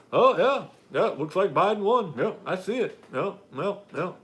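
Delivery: mocking Brian Kemp. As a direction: toss it off like a dodging governor. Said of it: "he's like".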